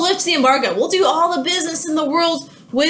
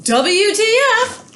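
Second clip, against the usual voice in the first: slow, higher, spelled-out WTF; mock outrage; 8 semitones higher, much slower than usual. Britain learns of the double deal, slow and incredulous. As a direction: drag out each letter in disbelief. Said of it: "To which Britain goes".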